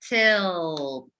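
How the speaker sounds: "Tilt" said with sounds drawn out; stretched word. Shown as a demonstration. Teacher stretching "Tilt" for the next sound. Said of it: "And the next sound?".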